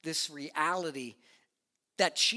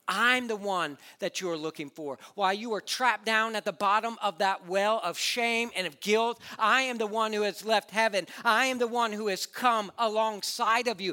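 rising, louder and higher, preaching to a climax; building preaching; 6 semitones higher, 8 dB louder than usual. Acted. Pastor proclaiming Jesus to the congregation, building to loud fervor. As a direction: build each I am line with fervor.

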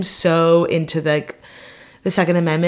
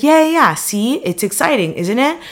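mock eager date; 7 semitones higher, 3 dB louder than usual. Mimicking date's excited agreement.

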